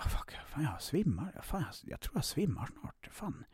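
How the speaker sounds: panicked whisper. Retold or imitated. Retelling panic attack in store.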